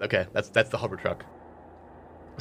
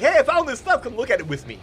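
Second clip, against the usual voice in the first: imitating Frank; 12 semitones higher, 4 dB louder than usual. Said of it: "he's just like".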